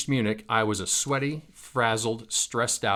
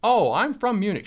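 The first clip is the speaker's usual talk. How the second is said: smiling; 11 semitones higher, 5 dB louder than usual. Retold or imitated. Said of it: "she said with a smile".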